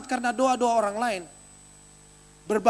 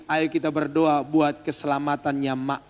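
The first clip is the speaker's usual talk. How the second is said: mock pious relative; 7 semitones lower than usual. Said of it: "jangan bilang begini".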